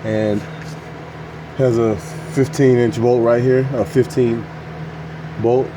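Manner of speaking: talking while lying under a truck; lying under a car. Real, not acted. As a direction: speak from flat on your back. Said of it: "so I'm under the truck now".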